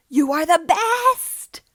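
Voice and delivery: slow, loud, high gush of delight; excited. Acted. Luke gushing to Fighter Fan, loud and delighted. Luke thanks his online friend.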